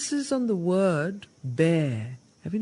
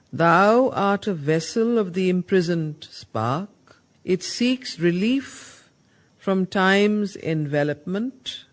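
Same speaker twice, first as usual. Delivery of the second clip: louder, ringing reading of "A power is in thee" with rising ends; emphatic declamation; 7 dB louder than usual. Shown as a demonstration. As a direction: proclaim it as the answer to the question. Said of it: "So his explanation is".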